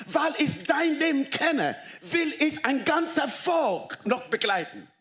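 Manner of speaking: high, driving sermon climax with laughs; preaching at full force. Acted. Pastor urging friends that God chose Moses, impassioned preaching. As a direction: fire up the congregation, voice pitched high.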